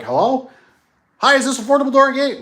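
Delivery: high, light mocking voice of a kid. Kid answering a wrong-number call, mock high voice. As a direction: squeak it like a clueless kid.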